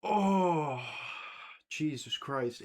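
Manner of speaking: laughing, high, grossed out; laughing disgust. Real, not acted. Reacting to the cat sandwich, laughing and grossed out. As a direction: crack up at how gross it is.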